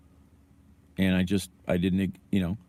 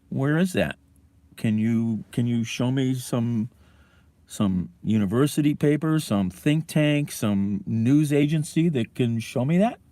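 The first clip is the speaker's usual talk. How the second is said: indignant challenge; 4 semitones higher than usual. Real, not acted. Retelling his challenge to a right-leaning friend, indignant and higher. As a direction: push back hard, pitch up.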